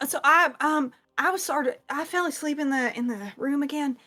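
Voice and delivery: casual, rambling squire recounting the morning; lightly voiced chatty squire. Squire tells newcomer about falling asleep, lightly voiced and rambling. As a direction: lightly play a squire explaining themselves. Game master plays squire Ara.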